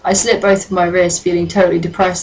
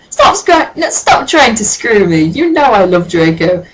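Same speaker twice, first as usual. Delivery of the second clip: mock shout; 4 semitones higher than usual. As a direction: push him off indignantly. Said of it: "I shouted".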